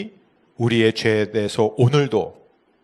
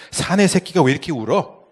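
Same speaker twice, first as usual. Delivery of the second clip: higher-pitched chiding question; mock gruff scolding; 5 semitones higher, 4 dB louder than usual. Passing elder to crying schoolboy, mock scolding. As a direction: imitate an elder chiding a boy.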